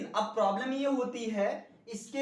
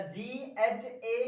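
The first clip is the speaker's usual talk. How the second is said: slow spelling; much slower than usual. Shown as a demonstration. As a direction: spell जी ए जेड आई slowly, letter by letter. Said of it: "spelling क्या देखे हो बताइए". (धीरे धीरे spelling)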